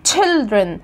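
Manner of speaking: put-on children with a clear tch at the start; correct children. Shown as a demonstration. Teacher models the right children for her students, crisp tch. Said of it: "هي اسمها تش".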